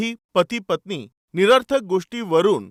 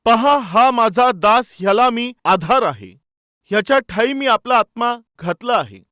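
scripture reading. Acted. Preacher reading Isaiah to the congregation, solemn scripture reading. Reads scripture aloud emphatically.

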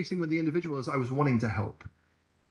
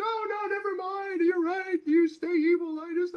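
very high, mock-meek caving in; mock surrender. Preacher pretending to give in to a skeptic, very high and mocking. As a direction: squeak out a sarcastic surrender. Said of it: "as if somehow I'm gonna be like".

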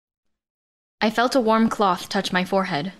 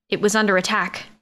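plain reading voice

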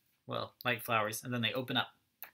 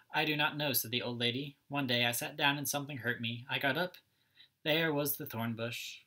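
lively storybook read-aloud, each character lightly voiced; reading to children. A narrator's reading. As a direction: read it like story time for little kids.

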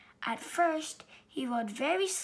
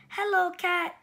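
high, loud cheerful hello; cheery greeting; 6 semitones higher, 7 dB louder than usual. Acted. Duck greeting Sheep from his bike, bright and loud. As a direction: sing out a friendly hi. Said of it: "said Duck".

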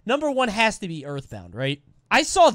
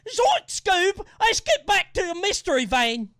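"Zoink, Scoob" in a high, loud British Shaggy voice; British Shaggy accent; 12 semitones higher, 4 dB louder, slower than usual. Shown as a demonstration. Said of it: "Why British Shaggy?".

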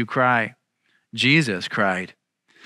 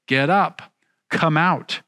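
mildly raised, imitated summons; loud call; 3 semitones higher than usual. Preacher voices Christ waking the dead, mild loud call. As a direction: call it out without shouting. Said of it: "say with a loud voice".

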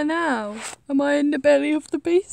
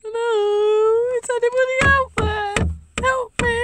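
higher pleading calls for help; weak trapped cry for help; 5 semitones higher than usual. Pretend. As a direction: call out as if trapped. Pretend trapped in wardrobe.

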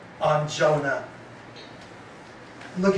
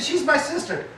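fibbing Abraham; 9 semitones higher than usual. Acted. Abraham lying to Egyptians.

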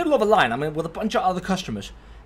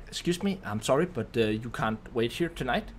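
soft, apologetic excuse me; retold polite request, slightly hesitant; 3 semitones lower, 3 dB quieter than usual. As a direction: politely turn someone away, quietly and carefully. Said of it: "I politely tell her".

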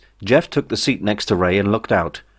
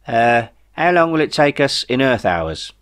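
Jeff voice; 4 semitones higher than usual. Acted.

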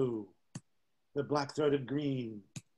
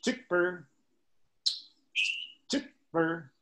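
chick bird call; 4 semitones higher, slower than usual. Retold or imitated. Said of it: "that's the scarlet tanager".

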